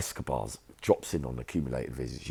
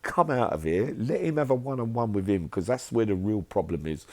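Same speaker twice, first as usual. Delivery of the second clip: John ordering them out; 6 semitones higher than usual. Retold or imitated. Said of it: "This is him".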